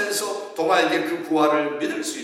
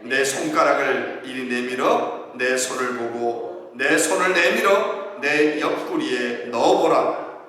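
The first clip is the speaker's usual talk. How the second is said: slow scripture reading; slower than usual. Shown as a demonstration. Pastor leading the congregation in reading, slow and solemn. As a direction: read each word slowly and solemnly. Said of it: "같이 한번 읽어볼까요".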